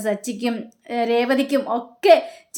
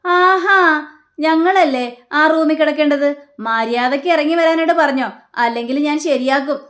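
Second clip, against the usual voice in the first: loud, higher, threatening rant; retold angry shouting; 4 semitones higher, 5 dB louder than usual. Son loudly threatens his cousin to leave their room, angry. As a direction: kick up a row, voice raised. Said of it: "ഒച്ചപ്പാടുണ്ടാക്കുകയാണ്".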